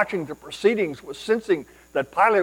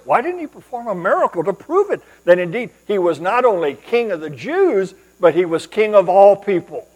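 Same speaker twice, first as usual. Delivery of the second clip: raised voice, pressing rhetorical questions; insistent questioning; 2 semitones higher, 6 dB louder than usual. Acted. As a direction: press each question harder, as a puzzled objector. Voicing listeners' disappointed, challenging questions.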